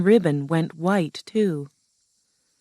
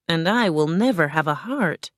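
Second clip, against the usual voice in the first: lightly voiced, measured tin man; Tin Man lamenting. Tin Man laments his missing heart, lightly voiced. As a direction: lament with little change from your own voice.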